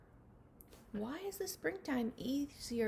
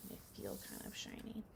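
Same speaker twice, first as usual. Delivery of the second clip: whisper; 11 semitones lower, 11 dB quieter than usual. Real, not acted. Showing the shiny book cover.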